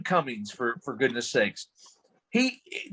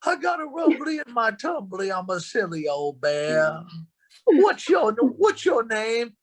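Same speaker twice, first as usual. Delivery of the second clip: cuddly cartoon bear asking a name; Winnie the Pooh voice; 8 semitones higher, slower than usual. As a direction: play a gentle, dopey bear, way up high. Pooh voice in comic scene.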